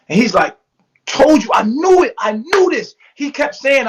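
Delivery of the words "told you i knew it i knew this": emotional outburst. Retold or imitated. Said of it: "'cause he's getting emotional".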